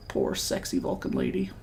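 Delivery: mock lament. Gamer pitying his unreadable Vulcan narrator, whispered. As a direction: sigh it out like a tiny eulogy. Mock pity for game character.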